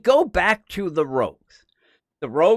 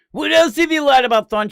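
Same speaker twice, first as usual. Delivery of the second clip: mock angry demand; 8 semitones higher, 7 dB louder than usual. Captain Cold confronts Thawne.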